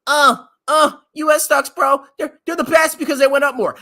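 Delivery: a hint of a dumb bro; mocking a bro investor. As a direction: parody the hype-chasing bro. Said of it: "don't sit here and say".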